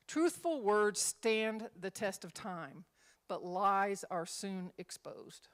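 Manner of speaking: slow, measured reading; scripture reading. Acted. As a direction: read the verse deliberately. Reads scripture.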